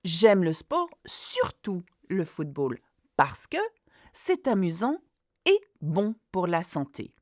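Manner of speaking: "J'aime le sport, surtout le football" carried on with a rising lift on "sport"; extended model answer. Shown as a demonstration. Teacher models adding detail to a basic answer. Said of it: "add on".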